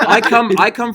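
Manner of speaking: laughing. Real, not acted.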